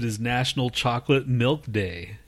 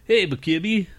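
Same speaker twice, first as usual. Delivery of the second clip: high, mushy cartoon voice full of 'ba'; Mush Mouth impression; 7 semitones higher, 4 dB louder than usual. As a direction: chew the words like Mush Mouth. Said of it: "the mush mouth on Fat Albert".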